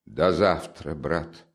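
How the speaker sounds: gentle, subdued farewell; compassionate. Acted. Sister saying goodbye to her brother, compassionately. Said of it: "с состраданием сказала Дуня".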